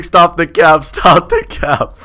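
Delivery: laughing through the chat quote; giggling as he reads. Real, not acted. Streamer laughing while reading chat aloud.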